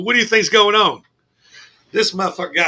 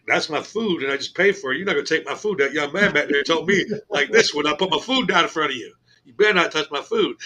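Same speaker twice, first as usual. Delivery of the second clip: quieter, lower, firm warning; softer, low retold warning; 4 semitones lower, 7 dB quieter than usual. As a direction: lay down the law quietly.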